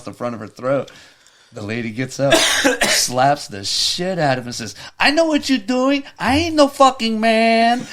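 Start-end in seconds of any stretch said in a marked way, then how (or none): 5.0-7.9 high, loud indignant yell; indignant high-pitched shouted comeback; acted outraged woman. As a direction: yell it in mock outrage, drawing out the end. Acts woman who slaps the man.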